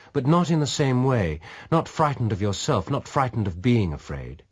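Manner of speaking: a hint of a probing lady; lightly voiced woman, challenging. A narrator's reading. Dona insists.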